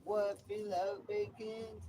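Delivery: high cooing voice for the cat; pet talk. Acted. Baby-talking to his cat Romeo.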